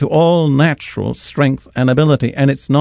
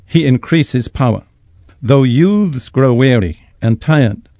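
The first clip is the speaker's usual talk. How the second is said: scripture reading. Acted. Reads Isaiah aloud.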